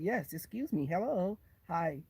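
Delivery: mock-proper, softened greeting; softly put-on company manners; imitated polite code-switch. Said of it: "when I've been somewhere with them".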